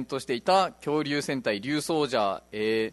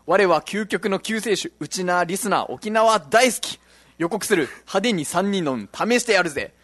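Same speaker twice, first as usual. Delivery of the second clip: hammed-up hero roll call; slower than usual. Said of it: "どっからそのテンションで読んでいいかわからなくて".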